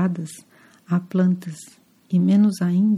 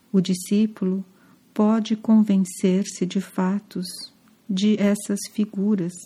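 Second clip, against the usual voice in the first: misreading. Real, not acted. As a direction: read it haltingly and get it wrong. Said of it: "Perdão".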